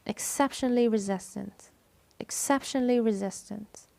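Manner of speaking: "exceptionally" stressed on its second syllable, "cep". Shown as a demonstration. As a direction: model "exceptionally" with "cep" standing out. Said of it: "It is the second syllable". (التشديد على "cep" في "exceptionally")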